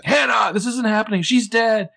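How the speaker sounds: high, loud mock hysteria; hammed-up panicked shouting; freaking out. Recapping friends around the body, mock panicked shout. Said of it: "Everyone's freaking out".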